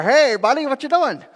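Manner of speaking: loud, high Wisconsin neighbor hailing a pal; hammed-up Wisconsin neighbor greeting; Wisconsin neighbor accent. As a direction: holler over in a comic Wisconsin accent. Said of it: "Apparently he's from Wisconsin".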